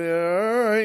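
grudging, clenched 'all right'; acted seething surrender; through gritted teeth. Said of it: "his teeth are gritting".

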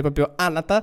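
"Anatar" with a clear n in place of the v; Anatar, not Avatar. Shown as a demonstration. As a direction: stress "Anatar" as a different name, n not v. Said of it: "avete capito bene il nome, non perché ho il naso chiuso". ("Anatar" con la n, non Avatar)

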